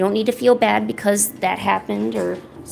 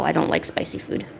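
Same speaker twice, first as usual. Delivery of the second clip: whispered; 6 semitones lower, 6 dB quieter than usual. Real, not acted. Muttered confession.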